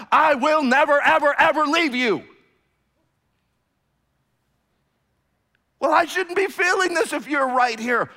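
loud, high preaching cry; fiery pulpit delivery; full-force preaching. Acted. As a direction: proclaim it to the back wall.

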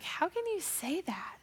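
whispered disbelief to grandma; stunned whisper. Retold or imitated. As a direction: barely voice it, in shock. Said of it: "I was like".

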